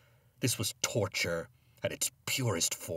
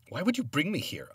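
raised, high-pitched pleading question; upset questioning; 9 semitones higher, 4 dB louder than usual. A narrator's reading. Man questioning the ghost who brought him here, upset. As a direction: ask it in dismay, voice lifting high.

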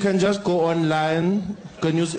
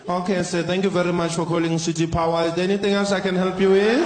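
lightly voiced agent running the sign-off script; a touch of a chirpy phone agent going through her lines; call-centre script. Agent Doris closes the call with the script, lightly sing-song.

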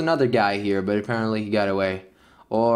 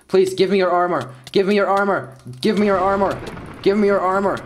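building whiny demand; 4 semitones higher than usual. Real, not acted. Begging opponent for armor.

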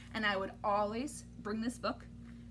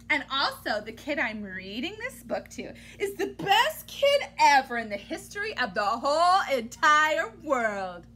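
louder enthusiastic praise; hearty praise; 5 dB louder than usual. Acted. Reader praising the listening kid, loud and proud. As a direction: proclaim it to the child.

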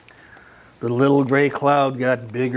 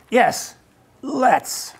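put-on high child voice; 9 semitones higher than usual. Child character agreeing, high.

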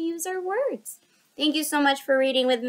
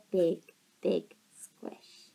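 soft whispered ending; 8 semitones lower, 5 dB quieter, much slower than usual. A narrator's reading. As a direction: hush it tenderly. Tender hug in story.

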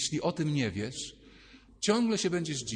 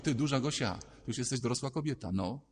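put-on lower, sly girlish scheming; little Gosia plotting; 3 semitones lower than usual. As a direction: whisper the plan like a naughty girl. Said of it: "mała Małgosia mówi".

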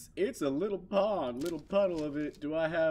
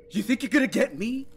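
higher, louder taunt; 8 semitones higher, 6 dB louder than usual. Real, not acted. Player taunts the monster chasing them, loud. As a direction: dare it to come get you.

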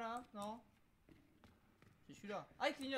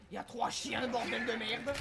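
louder, swearing in panic; panicked outburst; 4 dB louder than usual. Real, not acted. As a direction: blurt it out in alarm. Panic at three dogs.

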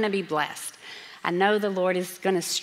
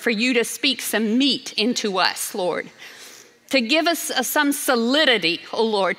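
fervent prayer. Real, not acted. Pastor prays before preaching.

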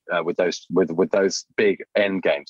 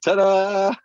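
mock ta-da; 13 semitones higher, 4 dB louder than usual. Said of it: "mock fanfare, very high loud".

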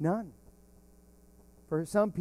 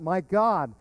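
crying out; 3 semitones higher, 5 dB louder than usual. Retold or imitated. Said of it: "crying out".

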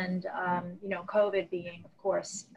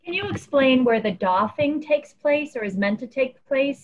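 repeated louder and clearer; 4 semitones higher, 6 dB louder than usual. Real, not acted. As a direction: push it out so it's heard. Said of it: "you're a little muffled".

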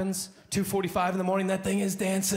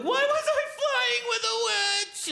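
very high, slow baffled voice; bewildered dreamer; slower than usual. Retold or imitated. Dreamer wakes confused by his nightmare, very high and slow. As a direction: wake up utterly confused.

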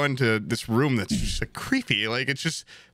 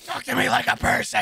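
put-on pleading voice; 10 semitones higher than usual. Mocking complaint in voiced tone.

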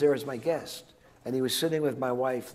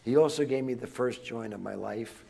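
usual speaking voice

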